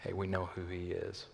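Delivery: low, hushed gossip; mock whisper. Onlookers gossiping about the returned son, mock whisper. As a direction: murmur it softly, imitating whisperers. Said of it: "was whispering, saying".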